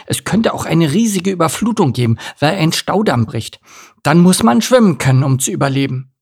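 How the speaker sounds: lightly voiced anxious young duck; worried duckling. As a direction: spin out a worst case as a fretful duckling.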